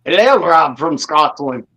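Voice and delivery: drawn-out attempt at a Scottish accent; slow, lightly Irish-tinged Scottish greeting. Shown as a demonstration. Livestreamer trying a Scottish accent to greet Rob, amateur Scottish accent. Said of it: "try to do a Scottish accent".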